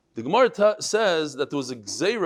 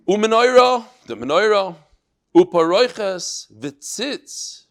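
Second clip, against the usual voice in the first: emphatic listing; 4 semitones higher, 9 dB louder, slower than usual. Real, not acted.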